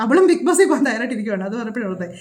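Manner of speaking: words breaking into a light laugh; amused. Real, not acted. Reactor mocking a woman's Bigg Boss plans, amused. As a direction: chuckle through the remark. Amused retelling of Big Brother ambition.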